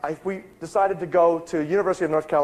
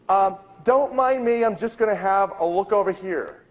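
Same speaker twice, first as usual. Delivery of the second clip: mock-casual excuse; 5 semitones higher than usual. Researcher fending off the helpful librarian, mock-casual. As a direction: excuse yourself lightly in a raised pitch. Politely brushing off the insistent librarian.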